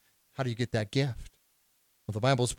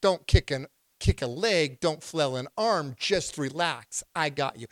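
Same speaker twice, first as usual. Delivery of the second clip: calm lifeguard; slower than usual. Acted. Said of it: "A trained lifeguard will say".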